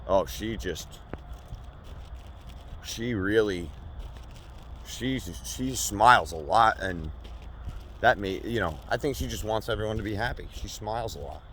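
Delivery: mock-outraged defense of the guy; heated rant. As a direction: build into a shouting defense. Escalating comic rant.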